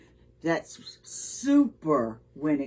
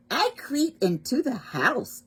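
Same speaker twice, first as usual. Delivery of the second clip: high-pitched storybook mouse; little mouse voice; 8 semitones higher than usual. Acted. Mouse telling where it hides, little mouse voice.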